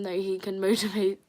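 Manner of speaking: stumbles into a laugh on the word; laughing at herself. Real, not acted. Streamer tripping over a chat message read aloud, laughing at herself. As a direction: giggle through a misread word. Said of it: "I'm laughing at me".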